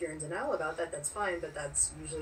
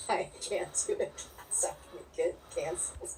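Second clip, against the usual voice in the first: light, breathy mock Asian accent; half-hearted imitation of an Asian accent. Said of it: "if I do that accent".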